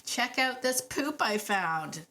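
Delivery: lightly voiced happy dog; imitating a proud, eager dog; excited dog. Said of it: "So he was like".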